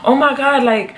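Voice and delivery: high-pitched, heated reenactment of yelling at him; retold angry phone rant. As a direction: replay the outrage, voice up high.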